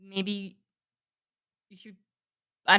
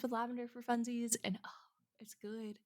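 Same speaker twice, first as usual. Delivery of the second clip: trailing off very softly into a yawn; 3 semitones higher, 14 dB quieter than usual. Real, not acted. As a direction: let a real yawn swallow the end of the sentence. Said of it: "I was yawning in the middle of that sentence".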